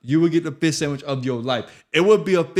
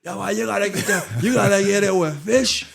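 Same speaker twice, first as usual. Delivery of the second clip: higher-pitched mock Bermudian accent; puzzled questioning in a put-on Bermudian accent; imitated Bermudian accent; 6 semitones higher than usual. Retelling locals pushing the sandwich, in a Bermudian accent. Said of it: "The accent's killing me".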